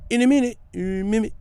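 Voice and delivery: stuttering. Retold or imitated. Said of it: "he was really tripping".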